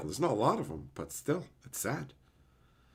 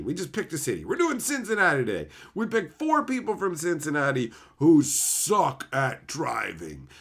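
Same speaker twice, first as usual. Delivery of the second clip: hammed-up American host; 5 semitones higher than usual. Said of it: "the American one is".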